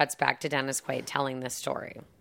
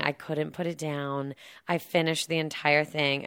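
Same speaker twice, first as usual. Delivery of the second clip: breathless wife; 4 dB quieter than usual. Retold or imitated. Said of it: "And she's like".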